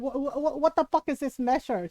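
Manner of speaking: lightly imitated indignant Filipino mom; sputtering mock outrage. Mom not having the measuring question, indignant. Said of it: "My mom was not having it".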